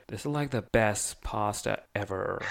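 lightly imitated American girl's accent; student on a bus, an American accent. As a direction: do a valley girl American accent. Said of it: "That's good American accent".

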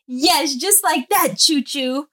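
put-on high, slow sing-song praise for a toddler; sweet mommy praise. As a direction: coo it like praising your little girl. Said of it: "And I say".

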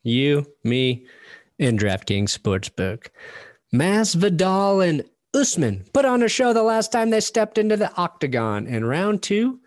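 loud, punchy ad read voice. Acted. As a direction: sell it like an energetic ad. Reads a sponsor ad.

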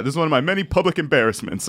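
Jackie Chiles impression. Quoting Jackie Chiles to friends, lightly pompous. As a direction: lightly play the grandstanding lawyer. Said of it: "or something like that".

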